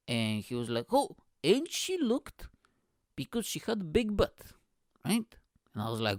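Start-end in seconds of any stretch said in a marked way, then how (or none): 0.9-5.4 higher-pitched, drawn-out impression of dad; imitated dad. Retelling dad's remark on a woman at the concert, high imitated voice. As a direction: play dad marvelling, pitched well up.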